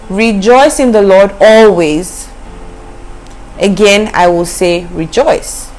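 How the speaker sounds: slow, lifted verse reading; scripture reading. Shown as a demonstration. Preacher reading Philippians aloud, slow and lifted. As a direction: proclaim it slowly with a pause before again. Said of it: "it says".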